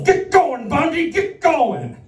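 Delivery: high, harsh guard command; barking guard. Pretend. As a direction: bark it like a prison guard.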